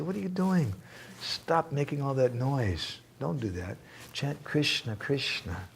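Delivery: high, sharp rebuke that settles into instruction; scolding. Retold or imitated. Radharani telling the gopis to stop the noise, mock scolding. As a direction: stop them mid-song, then tell them what to chant.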